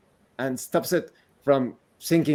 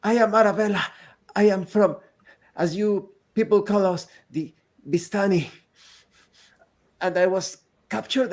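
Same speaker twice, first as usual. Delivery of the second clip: put-on girl voice; 6 semitones higher than usual.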